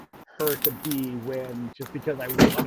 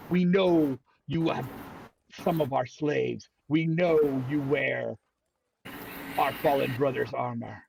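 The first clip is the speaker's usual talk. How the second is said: slow threatening drow voice; slow, deliberate threat; menacing drow; slower than usual. Acted. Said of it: "they make a comment about".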